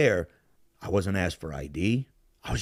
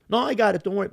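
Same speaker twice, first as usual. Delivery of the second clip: retold polite refusal; 10 semitones higher, 4 dB louder, much faster than usual.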